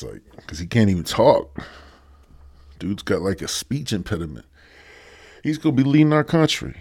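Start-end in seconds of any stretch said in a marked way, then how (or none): 5.4-6.7 incredulous. Acted. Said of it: "This motherfucker gonna be".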